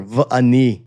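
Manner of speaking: v'ani said as "vuh-AH-nee", stress on the middle; Hebrew v'ani. Shown as a demonstration. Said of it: "the first person singular".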